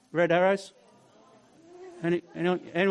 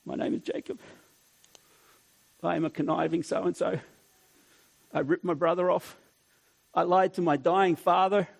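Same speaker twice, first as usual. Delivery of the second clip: shamed confession; 2 semitones lower than usual. Pretend. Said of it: "I reckon it was the latter".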